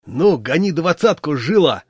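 loud, cheeky shout; swaggering loud holler; brash yell. Acted. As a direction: bawl it out brashly. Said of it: "развязно заорал он".

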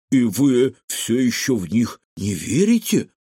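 gloomy, grudging question; sullen. A narrator's reading. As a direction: ask it with a frown. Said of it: "хмуро спросил Кефир". (хмуро)

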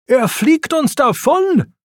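very high-pitched alarmed cry. A narrator's reading. Racer watching the thief parachute away, crying out. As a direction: cry out, pitch leaping right up. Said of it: "schrie Lightning".

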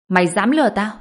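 outraged accusation. A narrator's reading. Enemy realizes he was tricked.

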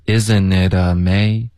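"Isn't it amazing" run together on steady air; linked, even airflow. Shown as a demonstration. Teacher models relaxed linking, smooth "Isn't it amazing". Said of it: "要连贯，气流要一致".

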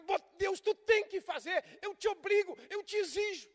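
mock-ordering God, high and loud; bossy demand. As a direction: bark orders like God is your servant. Believer ordering God around. (exigindo de Deus, alto e mandão)

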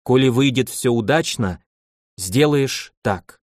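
slow and deliberate, taking her time; slowly spoken. Acted. Unhurried, weighing each word. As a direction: Yaroslavna gives Yakub an order, slowly and deliberately. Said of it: "медленно сказала Ярославна".

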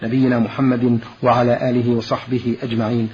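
formal radio announcer read; measured, formal program introduction; formal standard arabic. Acted.

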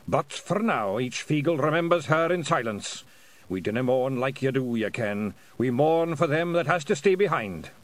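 put-on lightly Scottish old pixie; old Feagle. Old Feagle speaks, Scots.

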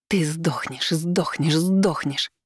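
seething muttered curse, powerless; muttering in helpless rage. Acted. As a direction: mutter it in impotent fury. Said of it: "бормотала она в бессильной злобе".

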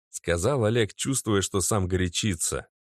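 plain reading voice

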